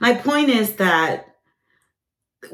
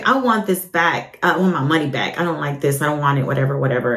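a mild imitation of a pushy customer, lower pitch; demanding customer; 5 semitones lower, faster than usual. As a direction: mimic a customer demanding a refund, lightly. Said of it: "she told me".

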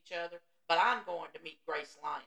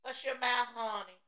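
higher, louder imitation of a cousin's saying; Keithy impression; 5 semitones higher, 3 dB louder than usual. Woman imitating cousin's favorite saying, playful impression. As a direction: play up the cousin's catchphrase. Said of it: "He always says that".

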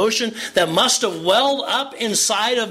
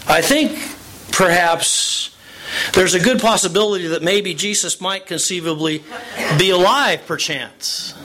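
mock hesitant. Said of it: "Do you notice what she said?".

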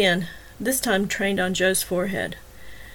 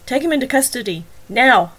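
firm command, last word shouted; commanding order; 4 semitones higher, 5 dB louder than usual. Acted. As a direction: bark the order at the officers. Officer ordering arrest.

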